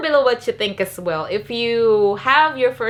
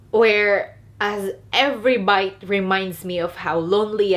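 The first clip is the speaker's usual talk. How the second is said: tearful whisper. Real, not acted. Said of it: "I'm crying".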